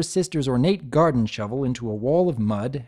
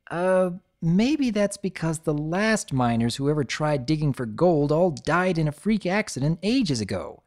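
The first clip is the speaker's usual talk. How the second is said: dry; 5 semitones higher than usual. Acted. Scootaloo deflates.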